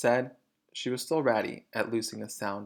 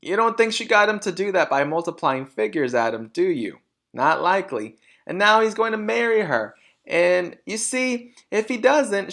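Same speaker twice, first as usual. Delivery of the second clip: high, loud gushing mother voice; excited vain mother; 6 semitones higher, 5 dB louder than usual. A narrator's reading. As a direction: swoon over the film plot. Mrs Wormwood rhapsodizing.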